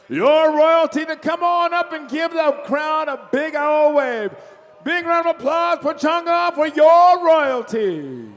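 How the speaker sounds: loud hype for the royalty; rallying the crowd. Real, not acted. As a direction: pump up the crowd. Announcer rallies crowd applause.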